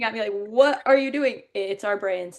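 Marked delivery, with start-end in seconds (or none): 0.3-1.4 slow, higher question; imitating a puzzled bystander; baffled onlooker. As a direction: stretch it out in bewilderment.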